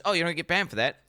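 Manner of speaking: high, loud imitation of careless players; mock gamer voice. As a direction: ham up a player gloating. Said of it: "everyone goes".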